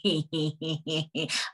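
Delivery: short chuckle; a brief laugh mid-story. Real, not acted. Laughs between quoted thoughts.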